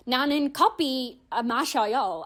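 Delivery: Korean with an English-speaker accent; foreign-accented Korean. Shown as a demonstration. Learner showing how not to sound, foreign-accented Korean. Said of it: "instead of sounding like".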